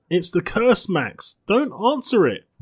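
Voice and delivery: high, loud frightened begging; panicked plea. Acted. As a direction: beg her not to open it. Amal panics about knocking door.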